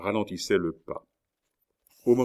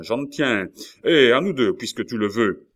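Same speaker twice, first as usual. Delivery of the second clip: raised, louder angry cry; gritted-teeth challenge; 4 semitones higher, 7 dB louder than usual. A narrator's reading. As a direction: throw down the challenge through clenched teeth. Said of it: "s'écria-t-il en grinçant les dents". (défi crié, dents serrées)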